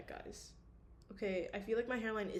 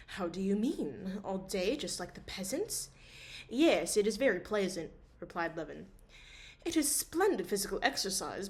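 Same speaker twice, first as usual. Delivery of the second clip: steady audiobook reading; story narration; 3 dB louder than usual. A narrator's reading. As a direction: read the novel calmly aloud. Reads novel chapter aloud.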